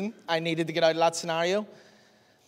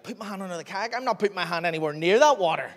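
incredulous; 3 semitones higher, faster than usual. Retold or imitated. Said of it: "And I was like".

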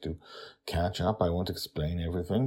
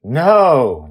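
put-on child voice; 8 semitones higher, 17 dB louder than usual. Joy correcting Charlie.

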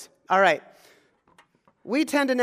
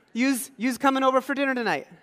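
a light rural Pennsylvania "you's" invitation; rural Pennsylvania accent; 5 semitones higher than usual. Retold or imitated. Pastor imitating rural Pennsylvania neighbours, light rural Pennsylvania accent. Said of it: "rural areas of Pennsylvania where they say".

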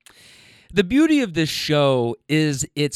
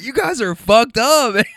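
imitating a scandalized guy, higher and louder; slow, drawn-out mock outrage; lightly voiced shocked bystander; appalled onlooker; 7 semitones higher, 5 dB louder than usual. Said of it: "the guy who was like".

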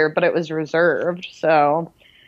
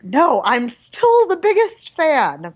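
mock defiant fan; 7 semitones higher, slower than usual. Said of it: "I was like".

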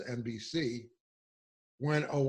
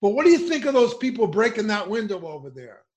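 higher, louder reporter pressing a question; mock reporter voice; 7 semitones higher, 10 dB louder than usual. Imitating a white reporter pressing an angry protester, loud and high. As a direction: mimic the reporter badgering the protester. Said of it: "what the white reporter said".

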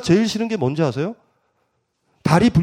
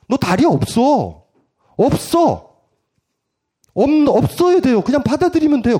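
slow, then higher and louder; blunt insistence; 8 semitones higher, 4 dB louder than usual. Pretend. Parent telling child he has no legs, blunt insistence. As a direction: hammer it home, word by word.

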